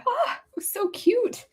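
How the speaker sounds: slow, high whisper near tears; tearful whisper. Real, not acted. Remembering little girls, whispering near tears. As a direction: let the tears choke it.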